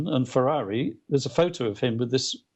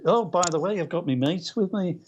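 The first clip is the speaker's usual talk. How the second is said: higher, lightly imitated Liverpool accent; a touch of Liverpool, pitched up; a singer's Liverpool accent; 6 semitones higher than usual. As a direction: quote it as a mild Liverpudlian. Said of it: "that Liverpool accent is hilarious".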